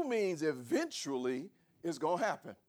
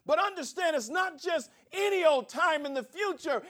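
much higher and louder, driving the point; full-force preaching; 11 semitones higher, 8 dB louder than usual. Acted. Pastor preaching to his congregation, high and loud. Preaching climax on God's timing.

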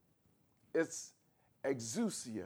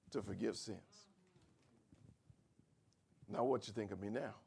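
ordinary talk

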